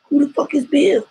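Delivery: high, squeaky incredulous question on Bill; mock disbelief. Joking rant about paying bills.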